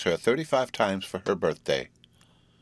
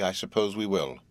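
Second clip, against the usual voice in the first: thoughtful. A narrator's reading. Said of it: "said Evie thoughtfully".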